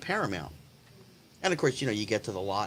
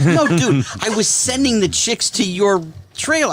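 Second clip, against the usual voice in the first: louder, higher, emphatic imitated protest; loud retold retort; 5 semitones higher, 6 dB louder than usual. Friend setting the naive actor straight about the trailer, loud mock retort. Acted retort from Richard in story.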